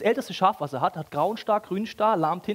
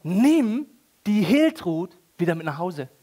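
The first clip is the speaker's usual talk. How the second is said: God's reply; 4 dB louder, slower than usual. Acted. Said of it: "und dann sagt Gott".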